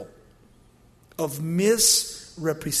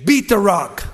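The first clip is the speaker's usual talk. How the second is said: mock angry; 7 dB louder than usual. God mocks Moses striking rock.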